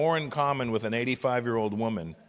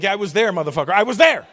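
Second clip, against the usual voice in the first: mock angry reply; 5 semitones higher, 8 dB louder, faster than usual. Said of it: "I'm like".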